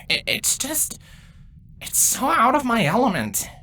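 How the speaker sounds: low, hesitant mumble after a sigh; mumbling. Acted. Confessing discomfort to an older broodmate, mumbling. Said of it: "he mumbles".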